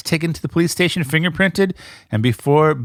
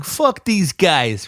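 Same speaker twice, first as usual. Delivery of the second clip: crude slacker voice; 4 semitones higher, much slower than usual. Retold or imitated. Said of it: "I don't know if Stanford has people that talk like that".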